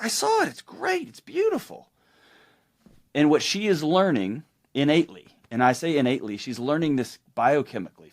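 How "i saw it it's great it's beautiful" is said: very high mock dismissive praise; hammed-up brush-off while scrolling; distracted dad. Dad to daughter, high mock dismissive praise. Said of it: "I'm like".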